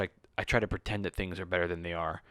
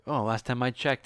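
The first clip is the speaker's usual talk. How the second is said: mock teasing mentor; 5 semitones higher, 5 dB louder than usual. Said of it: "He was like".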